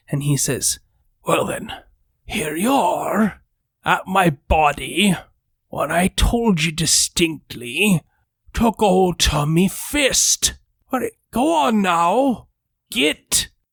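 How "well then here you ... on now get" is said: slow, eerie, otherworldly ghost voice. Voicing a ghost who dismisses the party after a battle: spectral ghostly voice. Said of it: "spectrally, of course, in his voice".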